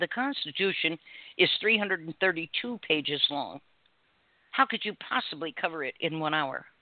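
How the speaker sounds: usual speaking voice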